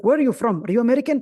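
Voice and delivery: official's loud question. Retold or imitated. Official pressing the visitor on his nationality, loud and insistent. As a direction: push the question as the suspicious official. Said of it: "he was like".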